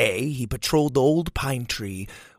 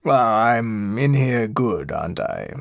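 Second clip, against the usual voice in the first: awkward plea from a stuck cat; sheepish stuck villain cat; 2 semitones lower than usual. Acted. Stuck cat asks for help.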